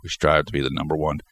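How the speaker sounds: blocked nose, short of breath; stuffed up. Real, not acted. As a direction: talk through a stuffed-up nose, gasping. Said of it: "I'm just gasping for air here. I'm totally stuffed up".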